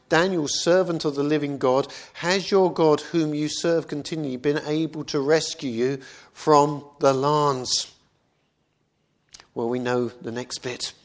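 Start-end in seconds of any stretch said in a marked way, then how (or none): 0.1-7.9 raised, pleading cry to Daniel; a king's anguished call into the lions' den. Acted. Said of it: "in an anguished voice".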